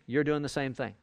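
sarcastic, talking down your nose; condescending sarcasm. Shown as a demonstration. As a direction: look down your nose at them. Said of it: "very sarcastically, very talking down your nose".

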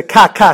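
"ka" with a clean hard K; a crisp stopped K on each "ka"; hard kappa sound. Shown as a demonstration. Teacher contrasting kappa with chi, hard K on "ka". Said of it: "the kappa makes the".

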